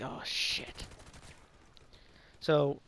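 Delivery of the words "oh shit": breathy whisper to himself; whispered thought. Retold or imitated. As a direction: whisper it under your breath, dismayed. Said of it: "thinking in my head".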